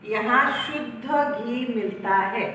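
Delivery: शुद्ध with a light half द and a full ध; slow clear demo of शुद्ध; careful शुद्ध. Shown as a demonstration. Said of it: "द आधा बोल रही हूँ, ध ज्यादा बोल रही हूँ".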